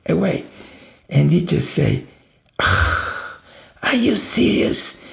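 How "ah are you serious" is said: high-pitched incredulous outburst, not shouted; exasperated sigh, then pitch leaps in disbelief; livid. Retold or imitated. Man seeing trash all over his driveway, livid disbelief. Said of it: "He was livid".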